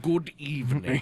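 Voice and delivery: slow, droll TV host greeting; Hitchcock impression. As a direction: introduce the show slowly and drily. Imitating Alfred Hitchcock intro.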